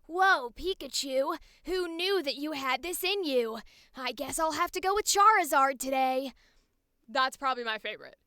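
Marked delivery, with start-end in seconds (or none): 0.0-6.3 gentler, raised-pitch cartoon hero; softer Ash Ketchum. Shown as a demonstration. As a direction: play the young trainer with less grit. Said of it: "make it a little softer".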